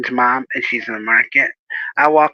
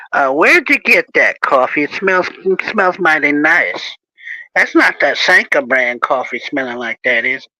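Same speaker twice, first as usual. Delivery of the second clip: playful teasing; 3 semitones higher than usual. Shown as a demonstration. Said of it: "I'd do something like this".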